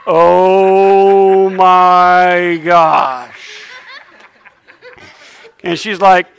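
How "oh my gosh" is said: shocked gasp. Retold or imitated.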